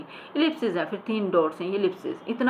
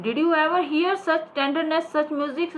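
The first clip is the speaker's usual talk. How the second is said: high, very slow awed line; hammed-up stage awe; theatrical declamation; 8 semitones higher, much slower than usual. Shown as a demonstration. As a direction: marvel at the music like an old actor. Acting the old actor.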